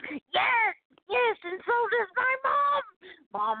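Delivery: high, emphatic yes-yes with a drawn-out tail; real excitement, pitched high; excited yes. Real, not acted. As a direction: burst out agreeing, then slow down. Eager confession about family checks.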